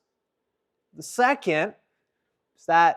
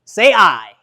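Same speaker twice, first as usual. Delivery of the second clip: loud call for a response; rallying call; 11 dB louder than usual. Real, not acted. Coach prompting the audience to answer, loud call. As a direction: call out to the crowd.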